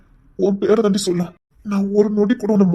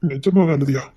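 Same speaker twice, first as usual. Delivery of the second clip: tearful question; 5 semitones lower, slower than usual. Acted. Husband asks through tears.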